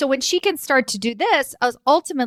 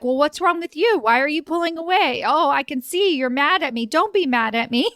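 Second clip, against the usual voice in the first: higher, mock needy boss voice; imitating angry boss; 5 semitones higher than usual. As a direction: play the hurt manipulative boss, half-mocking. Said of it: "he gets even more angry or, or more like".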